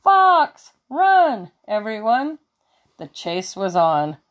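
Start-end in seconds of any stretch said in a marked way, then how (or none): 0.0-2.4 high, loud warning yell; a much higher, louder alarm shout. Acted. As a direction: yell to wake the farm and get them running. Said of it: "sounding the alarm".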